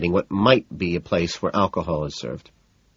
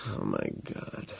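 hushed, breathy whisper; 12 semitones lower, 16 dB quieter, slower than usual. A narrator's reading. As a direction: whisper it in dismay. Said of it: "I whisper".

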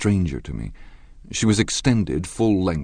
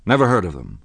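decisive dismissal; 6 dB louder than usual. Acted. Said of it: "he remarked decisively".

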